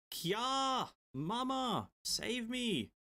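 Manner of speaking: put-on high, thin scared little girl cry; child's cry. Streamer voicing the girl calling her mother, high and scared. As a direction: squeal it like a frightened child.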